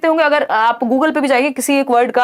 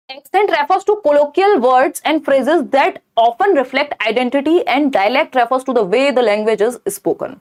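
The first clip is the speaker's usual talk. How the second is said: slow, deliberate reading of a test option; slow exam-question reading; much slower than usual. Acted. Teacher reading an exam option aloud slowly. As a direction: spell out each word slowly for students.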